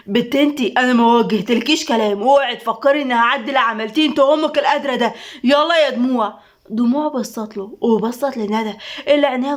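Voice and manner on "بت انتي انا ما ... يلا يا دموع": angry. Acted. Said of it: "حسين بغضب".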